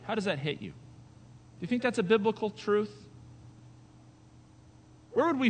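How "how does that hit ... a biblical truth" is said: ordinary talk, nothing marked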